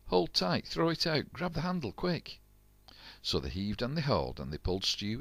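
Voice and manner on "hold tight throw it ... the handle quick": urgent orders. A narrator's reading. Jack throwing the rope, calling high and urgent. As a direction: bark the rescue orders high.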